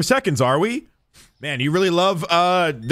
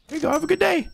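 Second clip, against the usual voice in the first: chirpy cashier voice; 13 semitones higher, much faster than usual. Acted. Cashier greeting customer cheerfully.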